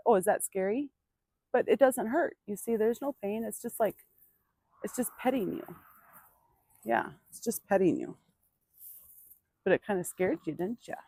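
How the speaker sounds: soft, reassuring murmur to a nervous horse; calm him, gently and quietly; soothing. Real, not acted. Trainer soothing her startled horse, soft and reassuring.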